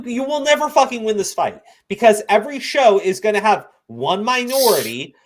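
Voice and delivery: usual speaking voice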